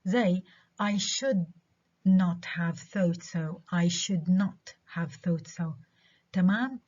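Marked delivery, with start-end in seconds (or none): 0.8-3.6 "should" stressed before "not"; slow, leaning on "should". Shown as a demonstration. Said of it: "بنعمل له stress". 3.7-5.8 slow, with weight on "should" before "not"; stress on SHOULD. Shown as a demonstration. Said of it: "Have و should".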